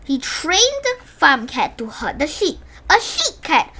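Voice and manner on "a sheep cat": amused. A narrator's reading. Narrator laughs at the idea.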